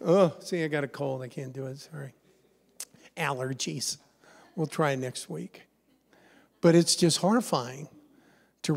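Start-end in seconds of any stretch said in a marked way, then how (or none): 0.1-5.6 much softer, fading mock excuse from God; playfully voicing God begging off, much softer. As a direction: fake a feeble sick-day excuse. God voiced making lame excuses.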